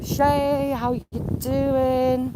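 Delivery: high sing-song hello to a bird, drawn out; cooing greeting. Real, not acted. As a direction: coo a slow, stretched hello.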